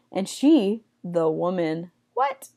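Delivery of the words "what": high, quiet squeak of disbelief; mock shock. Teacher feigns shock that a woman speaks up, mock shock.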